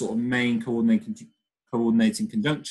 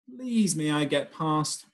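pleading; 5 semitones higher, slower than usual. Acted. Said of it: "I pleaded".

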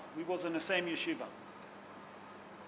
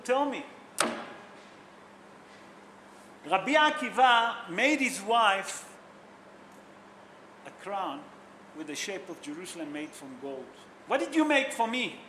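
retold jealous wife, raised accusing questions; mock jealous complaint; jealous demand; 4 dB louder than usual. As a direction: imitate a wife demanding her share, pitch jumping up. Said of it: "She was jealous".

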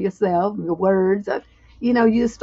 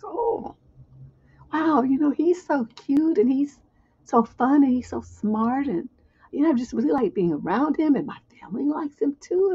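gushing crush; 3 semitones higher than usual. Retold or imitated. Voicing a smitten girl.

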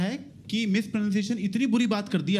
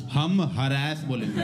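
stubborn Americans voice; 6 semitones lower, much slower than usual. Retold or imitated. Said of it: "Americans कहते हैं".

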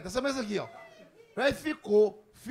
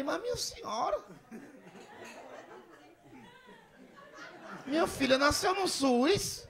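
high-pitched exasperated self-defence; hammed-up incredulous appeal; mock pleading protest; 6 semitones higher, 4 dB quieter than usual. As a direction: plead your case in a high comic voice. Acted protest to old lady.

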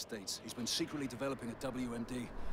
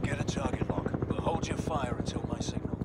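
raised voices over engine noise; firm raised orders; 6 dB louder than usual. Acted. Pilot and commander talk over gunship comms, raised voices. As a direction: call it out over the roar.

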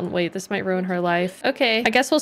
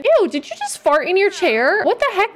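shrill grossed-out outburst; disgusted surprise; 8 semitones higher than usual. Real, not acted. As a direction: recoil at the smell, half laughing. Sim farts in chair.

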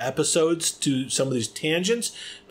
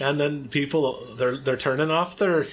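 light mock Irish accent; put-on Irish accent; 2 semitones higher than usual. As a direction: keep up a playful pretend Irish accent. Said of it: "I'm gonna do this Irish accent".

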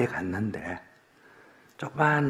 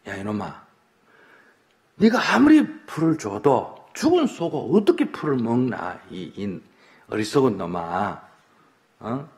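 father's scolding; 3 dB louder than usual. Acted. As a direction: scold your foolish son, half in earnest. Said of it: "야단을 쳤어".

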